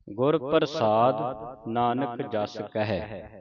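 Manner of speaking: measured, careful recital of gurbani; slow scripture recitation. Shown as a demonstration. Teacher reciting gurbani for students, slow and careful. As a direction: recite each word slowly for the learners.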